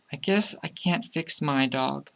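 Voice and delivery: put-on soft, downhearted child's thought; quiet, mildly dejected little kid; sad child. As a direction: think it aloud softly, giving up. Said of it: "the child thought sadly".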